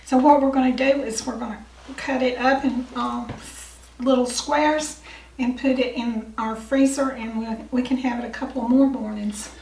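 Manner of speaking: hoarse, losing voice; strained hoarse voice. Real, not acted. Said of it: "I'm losing my voice again".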